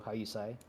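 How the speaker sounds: "say" said as "sigh", like the end of a singer's stage name; name pronounced like that singer's name. Shown as a demonstration. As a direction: confirm the name, "say" rhyming with eye. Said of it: "pronounced like P S Y".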